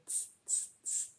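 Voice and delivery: breathy mocking tss from the monkeys; cheeky monkeys mocking the peddler's scolding; monkeys tsk-tsking back. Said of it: "and said".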